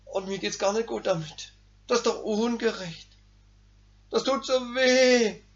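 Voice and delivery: soft, complaining whine; lightly whining flesh. Acted. Preacher gives his flesh's soft complaint, lightly whining. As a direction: moan like the hurt ego. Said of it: "Mein Fleisch meldet sich".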